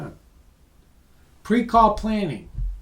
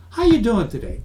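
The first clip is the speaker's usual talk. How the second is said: bright chirpy sales opener, a bit higher; bad opener; 4 semitones higher, 3 dB louder than usual. Shown as a demonstration. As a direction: sell the cheesy small-talk greeting. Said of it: "That's not a good question".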